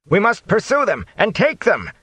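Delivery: high unsteady shout. Acted. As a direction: yell after them, rattled. Bornhold keeps shouting orders.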